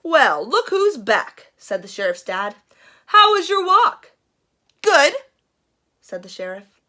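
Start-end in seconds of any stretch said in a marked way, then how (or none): 0.0-1.5 dad. Acted. Dad greets returning sheriff. 3.1-5.1 parent voice. Acted. Parents question guilty sheriff.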